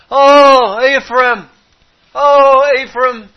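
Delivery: loud, high calls full of care; caring voice of God. Acted. God calling Israel by pet name, loud caring plea. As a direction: call out to a beloved child, aching with love. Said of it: "It's not a bland voice. It's full of care".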